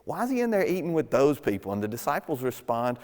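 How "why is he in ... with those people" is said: "he" lifted higher in an affronted, gossipy ask; mock-outraged critic asking why; indignant question. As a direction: sound scandalized about who he eats with. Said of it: "Anytime those quotes show up, it's scary".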